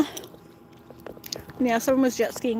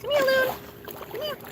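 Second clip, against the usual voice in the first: calling a pet; 14 semitones higher than usual. Real, not acted. Calling pet bird high.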